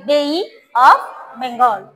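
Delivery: "Bay" stretched into bei-ee, very slow; slightly drawn out. Shown as a demonstration. Teacher modelling for pupils, "Bay" slowly drawn out to an ee. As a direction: say "Bay" with a long trailing ee before "of Bengal". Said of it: "একটু টান দিয়ে".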